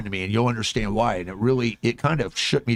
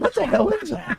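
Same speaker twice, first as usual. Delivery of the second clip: higher, puzzled exclamation; a hint of a baffled yell; mock bewildered. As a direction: play confused hitting something. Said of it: "You're like".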